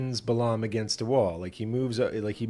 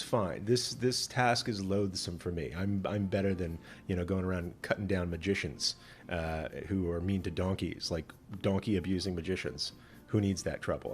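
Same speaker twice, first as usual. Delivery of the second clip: weary angel; 4 semitones lower, 6 dB quieter than usual. Acted. Angel grudgingly spares Balaam.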